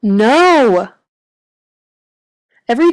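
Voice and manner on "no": final loud no. A narrator's reading.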